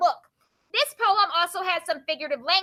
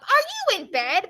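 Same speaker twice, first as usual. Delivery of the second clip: raised, lilting mock call; mom calling up; 4 semitones higher, 4 dB louder than usual. Mom calling up to her child at bedtime, lightly acted call. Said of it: "My mom called up".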